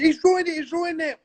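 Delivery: put-on very high, whiny little girl cry; wailing schoolgirl. Imitating Bernadette wailing to her teacher mum. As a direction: wail it like a tattling child.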